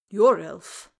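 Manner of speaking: loud, startled question; shocked. Acted. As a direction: blurt it out in shock.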